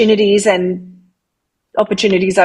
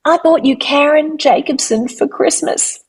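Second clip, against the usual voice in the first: surprised; 7 semitones higher than usual. Retold or imitated. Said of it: "my husband turned to me and he said".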